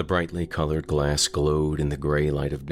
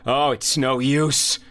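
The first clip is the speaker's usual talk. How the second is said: high, louder, slow despairing cry; panicked cry; 10 semitones higher, 6 dB louder, slower than usual. Acted. Carl gives up as the shadow arrives, panicked cry. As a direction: wail it out as all hope goes. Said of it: "Carl cried".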